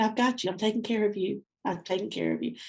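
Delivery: a tender whispered-down promise; reassuring. Retold or imitated. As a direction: gently promise care. Voicing God's reassurance.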